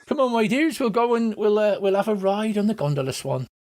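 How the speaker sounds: cheery mum. Acted. Mother voiced calling her kids.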